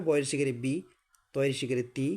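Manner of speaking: বি and তি ending in a clear "ee"; teacher's model of বি, তি with i vowel; correct i vowel. Shown as a demonstration. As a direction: spell out to a clean "ee" in বি, তি. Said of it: "কী হবে?".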